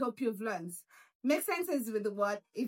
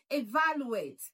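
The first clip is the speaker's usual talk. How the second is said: "evaluate" with VAL stressed; stress on second syllable. Shown as a demonstration. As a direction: punch the second syllable of "evaluate", then fall. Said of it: "stress is on the second syllable".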